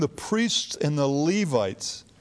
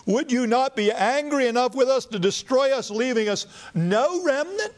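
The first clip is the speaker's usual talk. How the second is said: fearful plea; 10 semitones higher than usual. Acted. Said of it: "Ezra says".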